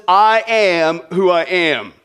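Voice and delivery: slow, solemn, weighty declaration; voice of God. Retold or imitated. God answering Moses in a slow, majestic voice. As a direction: proclaim it slowly like God. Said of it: "God says to Moses".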